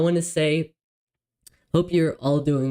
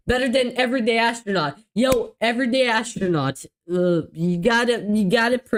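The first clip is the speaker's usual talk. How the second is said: excited; 8 semitones higher, faster than usual. Real, not acted. Excited teasing shout-out.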